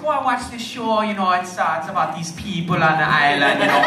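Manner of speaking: put-on a rough, hammy Jamaican accent; lightly put-on Jamaican accent, retelling. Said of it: "there's a horrible Jamaican accent".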